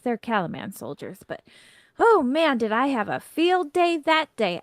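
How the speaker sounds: worked-up complaint, jumping high and loud in bursts; indignant gnome rant. Acted. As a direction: vent about a snooty lord. Gnome rants about snooty lord.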